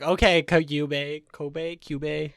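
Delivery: slow, drawn-out sarcastic "Okay, Kyubey". Retold or imitated. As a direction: roll your eyes at Kyubey. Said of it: "I was like".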